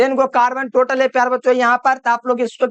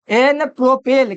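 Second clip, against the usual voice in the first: एन प्रोपेल said slowly and clearly; teacher slowly announces एन प्रोपेल; slow dictation; slower than usual. Shown as a demonstration. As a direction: spell out एन प्रोपेल slowly for the class. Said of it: "तो इसको बोलेंगे एन".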